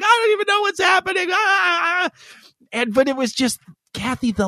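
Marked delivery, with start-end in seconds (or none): 0.0-2.1 much higher, fast, half-shouted mock panic; confused outburst. Imitating his girlfriend overwhelmed by her period, a half-shouted outburst. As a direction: blurt it out in bewildered alarm. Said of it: "sometimes she's like".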